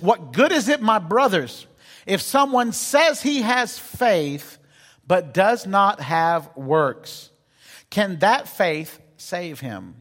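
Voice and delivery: slow, deliberate Bible reading from the pulpit; scripture reading. Acted. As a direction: read the verses out slowly to the congregation. Reads the Bible passage aloud.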